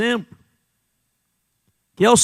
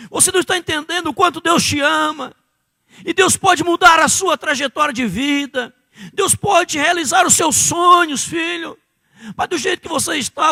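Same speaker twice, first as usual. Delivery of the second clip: pleading father; 5 semitones higher than usual. Retold or imitated. Father pleads with his son.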